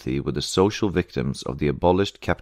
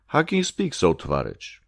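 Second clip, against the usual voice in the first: upbraiding; 2 semitones higher than usual. A narrator's reading. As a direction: scold a comrade in disbelief. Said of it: "He upbraided me".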